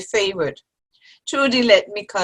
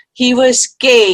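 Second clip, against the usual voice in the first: louder, leaning hard on gay; emphatic insistence; 3 semitones higher, 7 dB louder than usual. Acted. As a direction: hammer the word gay home. Insisting friend misses the point.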